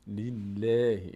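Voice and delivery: drawn-out "لیلهی" with a thin L; light L. Shown as a demonstration. Teacher repeats the thin reading for students, light L. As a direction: stretch "لیلهی" slowly, L kept light.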